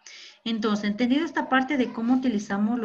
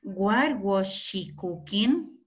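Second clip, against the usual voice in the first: very slow, carefully spaced English question; slow classroom English demo; slow model sentence; much slower than usual. Shown as a demonstration. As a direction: lay out each word for the class. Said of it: "Qué más podríamos decir".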